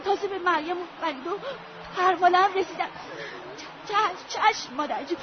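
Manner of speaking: quick hushed rambling, half laughing; grief-stricken girl rambling to dead parents; delirious chatter. Acted. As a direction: talk to the dead as if alive.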